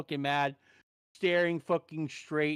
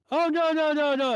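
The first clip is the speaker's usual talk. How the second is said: higher, louder imitation of a drive-thru girl; quick run of high mock reassurances; dismissive drive-thru worker; 10 semitones higher, 5 dB louder than usual. Drive-thru worker correcting a customer, high mock voice.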